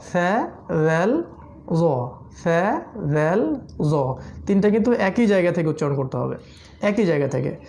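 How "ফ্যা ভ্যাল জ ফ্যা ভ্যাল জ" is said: ফ্যা ভ্যাল জ said slowly from the tongue tip; slow letter recital. Shown as a demonstration. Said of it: "এই হলো এই তিনটা হরফ".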